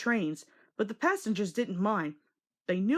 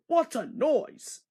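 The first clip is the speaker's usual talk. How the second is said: exclaiming; 6 semitones higher, slower than usual. A narrator's reading. Fat Controller startled by hissing.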